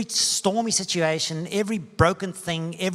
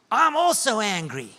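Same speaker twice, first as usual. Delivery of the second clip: higher, louder cry of shared anger; retold angry shout; 8 semitones higher, 6 dB louder than usual. Jesus shouting back at the grieving mother in her vision, angry shout. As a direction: shout it back as loud as she did. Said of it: "a voice shouting as loud as she's shouting".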